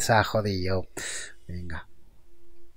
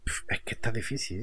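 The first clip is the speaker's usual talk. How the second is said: whispering. Real, not acted. Frustration at difficulty.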